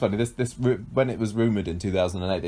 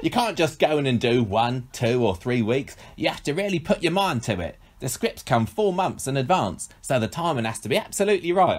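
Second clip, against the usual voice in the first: exaggerated accent, higher on key phrases; Bradley Walsh; 4 semitones higher than usual. Host retrying an actor's quote in a hammed-up accent. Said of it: "He sounded exactly like that".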